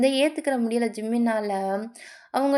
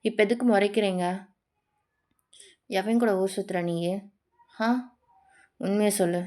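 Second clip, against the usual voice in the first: lightly voiced jealous lover, a little low; jealous interrogator; 3 semitones lower than usual. A rapper demands to know who a singer goes out with, jealous interrogation. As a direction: press for answers with mild menace.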